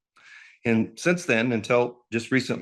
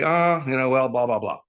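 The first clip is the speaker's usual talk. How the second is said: mock reaction; 2 semitones higher, 3 dB louder than usual. Speaker imitating people reacting to the news, mildly mocking. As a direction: toss out a generic reaction. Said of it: "how do they react? They say".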